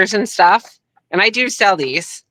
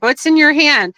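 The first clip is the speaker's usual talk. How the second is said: raised, mock-gruff Hogan voice; imitating Hogan; 9 semitones higher than usual. Guest imitating Hogan asking what she holds, higher mock voice. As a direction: put on a higher Hogan voice to ask. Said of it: "He's like".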